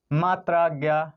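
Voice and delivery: slow, careful. Shown as a demonstration. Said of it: "अब हम संधि विच्छेद करते हैं".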